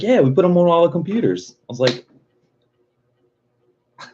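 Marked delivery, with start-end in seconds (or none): 0.0-1.5 imitating the clerk. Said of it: "He's like".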